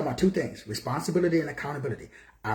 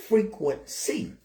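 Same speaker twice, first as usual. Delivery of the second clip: "frequency" drawn out slowly, each syllable given weight; slow stressed word; 5 semitones higher, slower than usual. Shown as a demonstration. Teacher pointing listeners to the word "frequency", slow and stressed. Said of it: "Look at the word".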